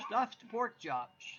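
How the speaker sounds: excited. Real, not acted. Host announces dinner excitedly.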